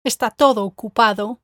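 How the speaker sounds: ESTÁ TODO OCUPADO as one group, TODO stressed; string the words together, leaning on TODO; words strung together. Shown as a demonstration. Teacher correcting a robotic student take, words strung together. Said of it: "You need to string those three words together".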